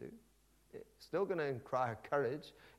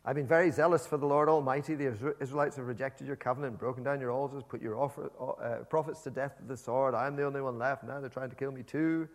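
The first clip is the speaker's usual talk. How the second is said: loud complaining rant; Elijah's rant again; 2 semitones higher, 10 dB louder than usual. Acted. Elijah rants to God loudly again. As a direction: protest loudly, pouring out grievance. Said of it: "he replies in exactly the same way".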